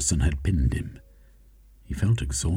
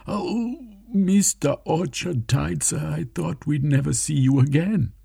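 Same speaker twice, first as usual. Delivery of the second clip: very high, relieved exclamation; Gentleman Smythe, overjoyed; 10 semitones higher than usual. Acted. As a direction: gasp with joyful relief.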